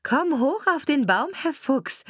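high-pitched shout to a friend; calling out. A narrator's reading. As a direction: call up urgently as the cat. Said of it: "rief ihm die Katze zu".

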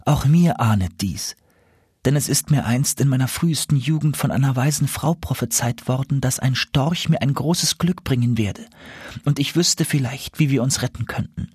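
a hint of a hopeful enchanted princess; hopeful owl princess. Owl princess answers caliph.

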